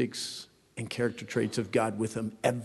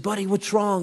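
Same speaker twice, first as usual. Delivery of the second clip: gentle dad; 8 semitones higher than usual. Retold or imitated. Dad asking son at night.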